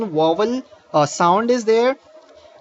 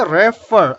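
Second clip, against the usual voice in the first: "refer" with the second syllable stressed; stress on the ending; 4 dB louder than usual. Shown as a demonstration. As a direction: lean on the "fer" in "refer". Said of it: "the stress is on the last letter".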